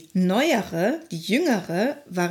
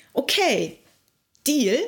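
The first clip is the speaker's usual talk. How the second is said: mock eager deal; 5 semitones higher, slower than usual. Frog quoted making a deal.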